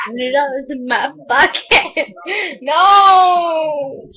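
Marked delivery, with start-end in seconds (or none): 2.6-4.1 shrieked no at sibling; whiny protest shout. Real, not acted. Kid shouting no at brother grabbing phone. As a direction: yell no to get it back.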